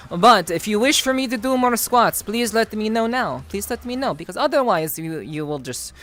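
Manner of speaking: loosely done mock Russian accent; pseudo Russian accent. Streamer talking squats and furry rumors with chat, pseudo Russian accent. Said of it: "not very accurate Russian accent".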